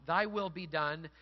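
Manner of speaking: slow, measured declaration; submission to God. Retold or imitated. Those who say to God, slow submission. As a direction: yield to God, slowly and firmly. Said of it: "Those who say to God".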